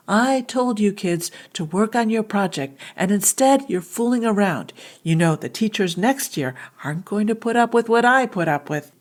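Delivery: lightly acted cross teacher telling kids off; angry teacher. Teacher scolding kids who aren't working, mildly angry. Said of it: "a situation with an angry teacher".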